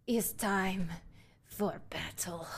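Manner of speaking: dropping to a whisper on the last words; hushed battle vow. Acted. Warrior murmurs before drawing the axe, fading to a whisper. Character readies to fight.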